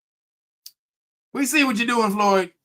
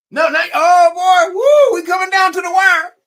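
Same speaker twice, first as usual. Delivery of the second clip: loud, high-pitched countdown nerves; hammed-up anxious excitement; mock panic; 10 semitones higher, 8 dB louder than usual. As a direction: whoop as the deadline closes in. Acts out anxious wait for check.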